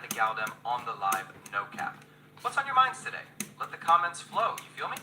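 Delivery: lightly voiced London street slang; a hint of London roadman; UK bruv style. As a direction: gas up the mandem, street vibes. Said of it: "in a U K bruv style".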